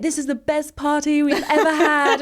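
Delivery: high, loud, hyped-up announcer voice; hyped party MC. Retold or imitated. Alone on New Year's Eve, mimicking the pub's microphone MC, loud and hyped. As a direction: imitate the pub MC working the crowd. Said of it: "this guy on a microphone being like".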